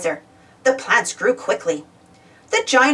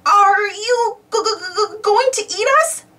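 high, quavering stutter of fear; frightened stammer; 11 semitones higher, slower than usual. A narrator's reading. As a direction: stammer in terror, voice pitched way up. Frightened gardener asks the giant.

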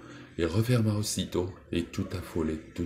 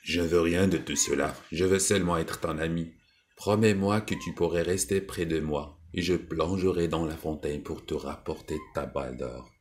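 toad voice. Acted. Toad asks the princess for friendship, earnest creature voice.

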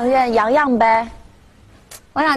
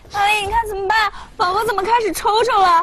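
high anxious questioning; worried plea; 6 semitones higher than usual. Acted. Asking a friend about the twitching baby, worried. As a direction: ask for help in a raised, anxious pitch.

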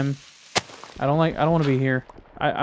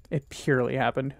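mock; 2 semitones lower, 6 dB quieter than usual. Shown as a demonstration. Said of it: "Who speaks like that?".

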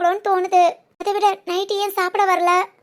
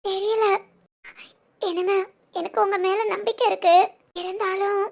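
on the verge of tears. Acted. Wife unable to tell husband why she cries, tearful. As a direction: hold back tears while trying to explain. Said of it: "ஆனா அழுக வருது".

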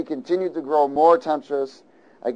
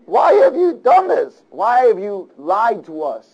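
higher, louder, slow accusing cry; alarmed sailors; 5 semitones higher, 6 dB louder, slower than usual. Acted. Sailors confronting Jonah, high slow alarm. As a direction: demand it of him in alarm. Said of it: "and said to him".

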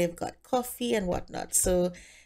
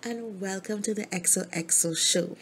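bubbly host; 2 semitones higher than usual. Acted. Gia opens her show and welcomes Barbie, gushing. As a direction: welcome the audience like a celebrity host.

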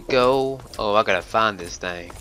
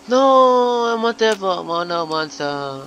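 surprised; 9 semitones higher, 3 dB louder than usual. Real, not acted. Gasp of surprise in game.

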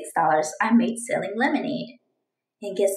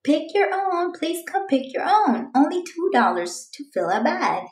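higher sales call; calling out customers; 6 semitones higher than usual. Acted. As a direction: call out to passers-by like a stand seller. Calling out at berry stand.

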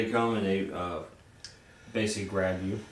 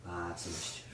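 mischievous goblin; 9 semitones higher, 9 dB quieter than usual. Acted. Goblin tempting voice.

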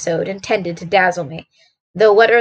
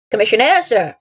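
lightly voiced gruff old soldier; a touch of military gruffness. Messenger answers Watson's question, mildly gruff. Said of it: "he said gruffly".

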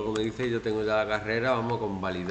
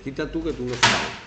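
dismissive quote; 4 dB louder than usual. Shown as a demonstration. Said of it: "no se dice".

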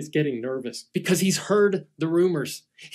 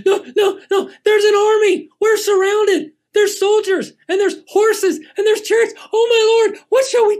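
much higher and louder, frantic; panicked servant; 8 dB louder than usual. Acted. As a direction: shake him awake in terror. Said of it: "Hank is freaking out".

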